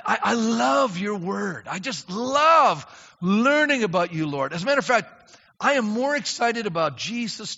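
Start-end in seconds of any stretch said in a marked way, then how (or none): 0.0-4.5 slow, earnest words to God; preacher praying to God mid-sermon; heartfelt prayer. Real, not acted. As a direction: pour out love to the Lord slowly.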